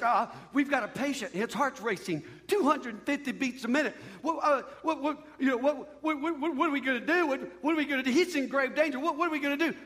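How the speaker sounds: lightly acted doctor in a stammering fluster. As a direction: stammer through it as a mildly panicked doctor. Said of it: "The doctor's like".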